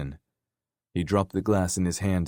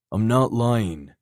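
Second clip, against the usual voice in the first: insistent; 4 semitones higher, 5 dB louder, slower than usual. Acted. Dare insists, denying.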